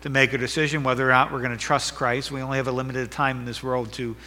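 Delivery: earnest, softening pastor's prayer. Acted. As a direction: pray for the church. Leads congregation in prayer.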